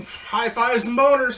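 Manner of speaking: "High fives and boners" said high, loud and slow; mock celebratory chant; gleeful catchphrase. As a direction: savour the catchphrase like a toast. Catchphrase said with glee.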